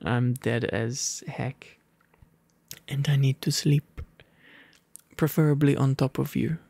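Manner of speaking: ordinary delivery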